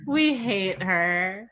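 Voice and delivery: very slow, drawn-out echo. Pretend. Friend echoes the joke about the advisor, very slowly drawn out. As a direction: draw each word out. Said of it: "joking echo".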